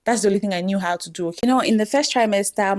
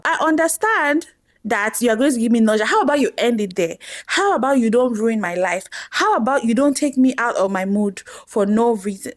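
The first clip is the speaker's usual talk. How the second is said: mock telling-off, slightly raised; mildly angry; 2 semitones higher than usual. Pregnant woman scolding her own nausea, mildly angry. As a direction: play up a touch of exasperated anger. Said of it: "Your girl was angry".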